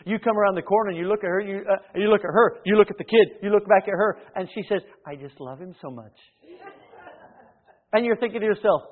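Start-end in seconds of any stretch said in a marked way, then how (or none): 5.0-6.2 mock doting mother.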